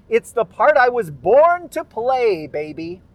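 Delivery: high, loud showman's brag; showy boast. Retold or imitated. Bragging online about landing the accent role, showy boast. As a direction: belt it out with big swooping emphasis. Boasting social media post read out.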